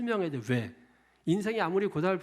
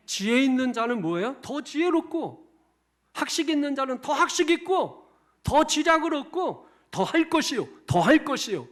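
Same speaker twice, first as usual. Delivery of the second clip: preaching shout; 7 semitones higher, 5 dB louder than usual. Real, not acted.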